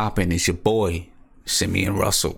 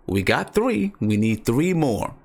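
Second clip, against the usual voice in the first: deliberate recap, each count set apart; slowed down; 3 semitones higher, slower than usual. Real, not acted. Host restating the open spots for viewers, slowed down. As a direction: lay it out slowly and emphatically. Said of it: "I'm gonna slow down for you".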